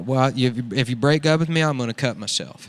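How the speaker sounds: lightly voiced redneck art hoe; redneck character. Cletus introducing his podcast, lightly redneck voiced. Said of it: "That's a good character, dude".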